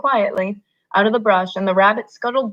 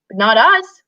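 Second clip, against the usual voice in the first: happy cry; 3 semitones higher, 5 dB louder than usual. Acted. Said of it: "Lenny cried happily".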